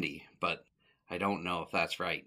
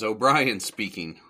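lightly imitated Yiddish accent, slower; hint of a Yiddish accent on the phone; 5 dB louder than usual. Booking agent answering the phone, light Yiddish accent. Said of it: "with a real thick Jewish or Yiddish".

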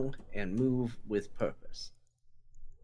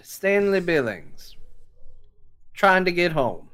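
louder, firmer self-introduction; tougher; 5 semitones higher, 5 dB louder than usual. Shown as a demonstration. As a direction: say your name like you won't back down. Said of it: "I just did".

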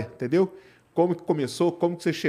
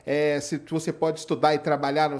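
ordinary delivery

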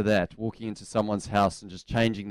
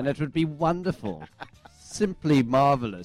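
posh voice; 4 semitones higher than usual. Retold or imitated. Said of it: "most posh voice".

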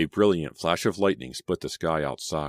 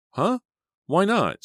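very high, louder, startled query; surprised questioning; 6 dB louder, slower than usual. A narrator's reading. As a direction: ask it taken aback, pitch shooting up. Selina is taken aback by secrecy.

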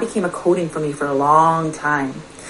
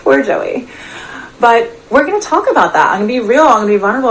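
higher, louder, through leftover laughter; laughing; 5 semitones higher, 5 dB louder, faster than usual. Real, not acted. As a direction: say it still amused, laugh lingering in the voice. Laughs at her own married past.

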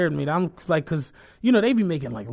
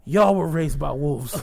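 deadpan insult; 5 semitones lower, slower than usual. Retold or imitated. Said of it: "I'm like".

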